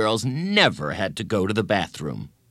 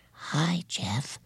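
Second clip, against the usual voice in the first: soft, shy-sounding little hello; whispered greeting; 6 semitones higher, 6 dB quieter than usual. A narrator's reading. Girl greeting Jeff in passing, whispered. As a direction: drop to a hushed, higher voice. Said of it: "whispered Colleen".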